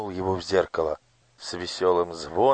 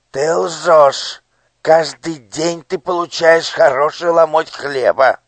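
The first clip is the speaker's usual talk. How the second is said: high, loud squeaking outrage; shrill accusation; 10 semitones higher, 14 dB louder than usual. A narrator's reading. Minister accuses the starving boy of lying. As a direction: call the boy a liar.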